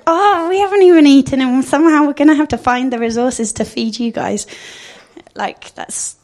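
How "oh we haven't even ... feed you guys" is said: exasperated disciples. Retold or imitated. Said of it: "And they're like".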